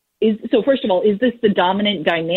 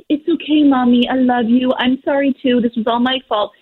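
higher-pitched imitation of a child; lightly voiced forgiving little kid, pitched up; imagined forgiving child; 4 semitones higher than usual. Imagined child accepting a parent's apology, lightly mimicked higher voice. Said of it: "expect them to be like".

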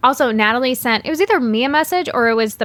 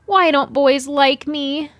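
whining; 3 semitones higher, slower than usual. Pretend. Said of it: "Insert whining here".

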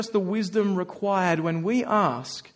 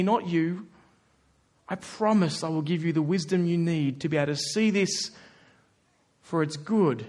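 loving Father. Retold or imitated. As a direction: coax a child to come close, gently. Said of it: "Hear the love of our Father".

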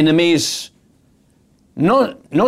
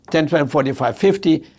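friendly counting. Retold or imitated. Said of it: "She could have said".

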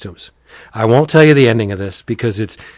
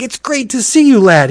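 hearty greeting; 11 semitones higher than usual. Retold or imitated. Acting Dan's greeting in heaven.

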